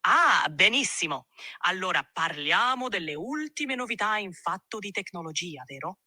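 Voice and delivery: speaks the tech chat in Italian; Italian, lively and relaxed. Acted. AI asked to repeat it in Italian, in Italian. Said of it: "but say it in Italian".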